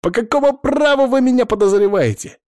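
high, loud outraged demand; outraged protest. A narrator's reading. Suspect demands to know why he is accused, outraged and loud. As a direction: shout your outrage at being suspected.

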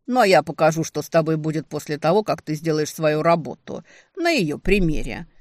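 loud gloating threat. Acted. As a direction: raise the voice and gloat. Villain threatens to demonstrate.

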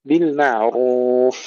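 slow بالمعروف with a heavy, rounded راء; drawn-out recited بالمعروف, thick راء. Shown as a demonstration. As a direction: make the راء in بالمعروف full and dark. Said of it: "تفخيم الراء جيدا مضمومة".

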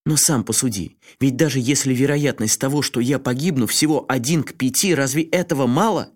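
high, heated pleading rant; worked up. A narrator's reading. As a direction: build the argument into fury. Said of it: "разошёлся не на шутку". (разгорячённо, всё громче)

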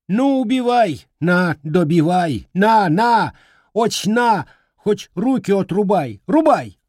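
shrieking. Acted. Grandmother shrieking at the boy to strike her. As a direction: scream it at him in despair. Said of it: "И взвизгнула".

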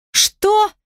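a sharp, high scoffing "what?"; contemptuous scoff. A narrator's reading. Daughter scoffing at her father, high and contemptuous. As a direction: sneer it back, incredulous and high. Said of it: "презрительно усмехнулась я".

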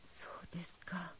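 a soft, slow whispered reply. Acted. Mother answering the teacher in a disappointed whisper. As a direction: barely breathe it out.

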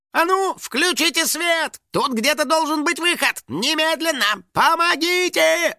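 very high, drawn-out demanding cries; frantic wailing. Acted. Finik stuck in the skull, wailing frantically. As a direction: wail it high, stretching the words. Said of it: "вопил Финик".

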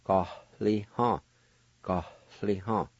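"Ga, li, ha" with a clear H sound in "ha"; teacher modelling the variant spelling; syllable by syllable. Shown as a demonstration. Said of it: "pronounced like this".

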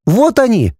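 put-on high, excited child exclaiming; boy shows parents the screen, joyful; joyful boy's cry. A narrator's reading. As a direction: shout it out with delight. Boy points.

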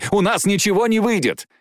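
high, hopeless wail in words; desperate exclamation. Acted. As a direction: cry out as all seems lost. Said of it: "воскликнула Джейн в отчаянии".

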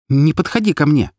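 nervous, defensive exclamation; unsure warning. A narrator's reading. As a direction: warn him off with wavering confidence. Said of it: "не так уверенно предупредила я".

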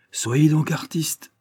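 high, slow exclamation; crying out. A narrator's reading. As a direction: cry it out as a misunderstood genius. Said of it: "s'écria-t-il".

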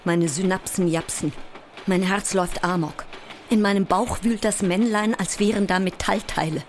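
panicked report of a body running amok; rising panic. Acted. Sleepless actress before premiere describes her racing body, rising panic.

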